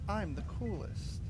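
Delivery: slow cool-guy line; imitating Shadow. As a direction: drawl it like a smug edgy hero. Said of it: "He says".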